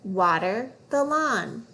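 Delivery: "water the lawn" read slowly, word by word; slow fluency read. Shown as a demonstration. Teacher reading a fluency phrase slowly.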